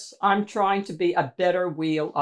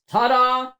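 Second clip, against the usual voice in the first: triumphant ta-da; 4 semitones higher, 4 dB louder than usual. Acted. Triumphant self-presentation.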